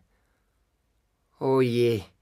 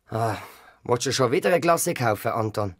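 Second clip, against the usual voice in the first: grandpa; 4 semitones lower than usual. Acted. Grandpa voiced in story.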